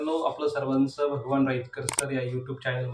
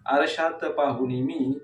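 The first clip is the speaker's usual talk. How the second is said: measured verse reading with falling line endings; declaimed poetry, leaning on each opening word; poem recitation. Acted. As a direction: recite the verse line by line, pausing between phrases.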